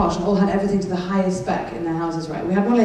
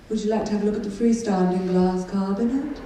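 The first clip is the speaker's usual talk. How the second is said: put-on posh accent. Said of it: "I sound like a wanker".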